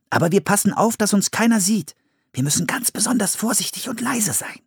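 put-on high, earnest child's voice; cautious child character. A narrator's reading. Boy warning his sister to stay unseen, high and cautious. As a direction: pitch it well up like a careful child.

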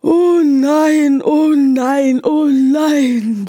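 despairing groan, fading off; groaning horse. Acted. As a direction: moan it like a worried horse. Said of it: "stöhnte das Pferd".

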